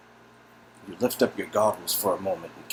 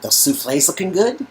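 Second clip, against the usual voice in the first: higher, louder, breezy host; cheerfully interrupt, higher; cheery Steve; 13 semitones higher, 8 dB louder than usual. Acted. Steve approaching the kitchen, cheery and higher.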